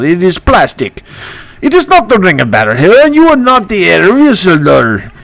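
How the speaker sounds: mocking the plastic ring; Bertu voice. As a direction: ghost king calling out a fake. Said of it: "that's my impression".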